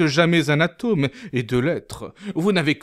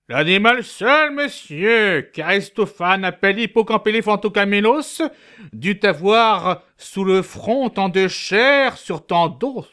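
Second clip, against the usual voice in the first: pedantic; 3 semitones higher than usual. Acted. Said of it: "Pédant".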